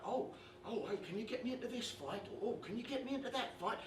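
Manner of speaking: quick, soft mock pleading; mimicked pestering mates. Dad mimicking mates begging for fight tickets, quick mock pleading. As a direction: rattle off the imitated favour-begging.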